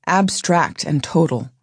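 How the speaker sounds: plain reading voice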